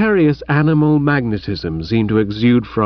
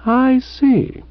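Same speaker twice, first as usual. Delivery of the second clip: emotional snort; 11 semitones higher than usual. Acted. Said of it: "snort emotionally in the darkness".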